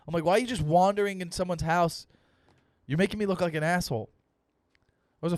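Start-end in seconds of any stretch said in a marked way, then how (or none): 0.2-4.1 higher-pitched scolding, moderately raised; retold yelling. Owner to dog in someone's house, retold yelling. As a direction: re-enact telling off the dog. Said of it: "I was yelling at him".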